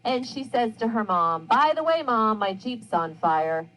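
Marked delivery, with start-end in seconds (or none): 1.5-3.7 mention it offhandedly, unexcited; breezy, unbothered aside to mom; nonchalant. Acted. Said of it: "being very nonchalant about it".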